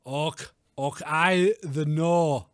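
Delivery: slow, shaky attempt at Scottish; halting mock Scottish; attempted Scottish accent. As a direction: try a Scot's phrase, very drawn out. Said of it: "I can't do Scottish".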